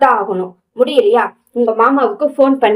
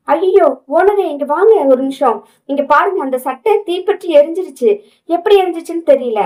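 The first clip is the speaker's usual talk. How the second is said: alarmed cry; 6 semitones higher than usual. Acted. Finds the burnt shirt.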